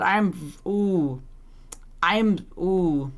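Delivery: low, held-in anger with pauses; seething. Real, not acted. Streamer demanding information from the game, seething. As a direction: demand it in a low, tightly restrained voice. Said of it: "I am so angry".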